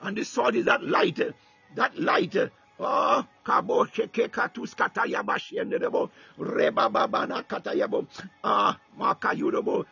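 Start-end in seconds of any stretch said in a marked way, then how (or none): 2.8-9.9 steady flowing tongues; speaking in tongues. Real, not acted. Preacher praying over the church in tongues, flowing. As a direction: pour out the tongues in one stream.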